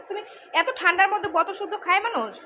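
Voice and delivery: high, loud laughing scold; laughing tease. Real, not acted. Mother laughing at her son for drinking from the icy bottle. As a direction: laugh while teasing him about the cold bottle.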